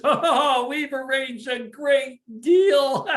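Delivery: high, loud gleeful announcement; jubilant father. Acted. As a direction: crow about the great deal. Father returns pleased from deal.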